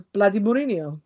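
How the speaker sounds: mock thick Cypriot accent, like his dad. Son quoting his Man United dad, in a mock Cypriot accent. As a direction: imitate the dad's Cypriot accent grumbling the name. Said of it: "his thick Cypriot accent".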